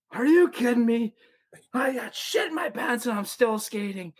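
high, exasperated disbelief with a laugh; mock outraged teammate. Teammate stepping off the ice, exasperated complaint. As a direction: voice a fed-up player half laughing.

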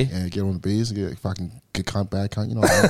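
broad, slangy Australian accent; Aussie accent. Shown as a demonstration. Showing friends his improved accent, casual broad Australian. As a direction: put on a matey Aussie accent. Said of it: "my Aussie one's getting better".

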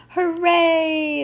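high, loud, drawn-out cheer; cheering cry. A narrator's reading. Audience cheering the judge's ruling, crying out. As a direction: cry it out long like a delighted crowd. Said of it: "voices cried from the audience".

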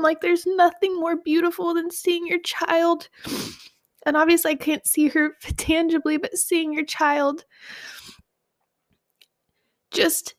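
real tears, sniffling between words; tearful. Real, not acted. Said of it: "excuse my sniffles and my tears".

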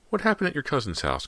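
high-pitched, insistent question; demanding. A narrator's reading. Daughter questions father about cousin's loan, demanding. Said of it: "Cody demanded".

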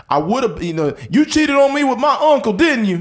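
hammed-up accusing hillbilly; mock hillbilly guest. Hillbilly guest accusing partner, high mock voice. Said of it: "They'd be like".

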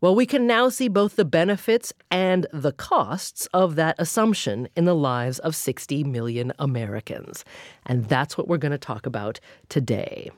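scripted news-magazine read with lively pitch swings; radio show introduction. A narrator's reading. Host introducing today's topic to listeners, radio introduction. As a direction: present the topic in emphatic, well-paced radio narration.

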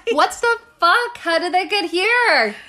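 high incredulous what the fuck; stunned, voice jumping up; shocked disbelief. Real, not acted. Shocked by monkey origin.

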